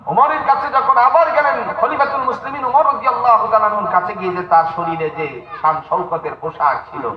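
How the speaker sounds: high, ringing sermon narration; high preacher's storytelling; impassioned preaching. A narrator's reading.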